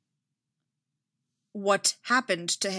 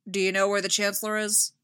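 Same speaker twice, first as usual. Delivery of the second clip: impatient; 3 dB louder, faster than usual. Acted. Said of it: "sounding impatient".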